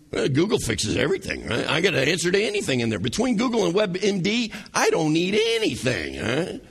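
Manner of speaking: mock praise of Google, dripping irony; sarcastic. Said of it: "do you hear the sarcasm in my voice".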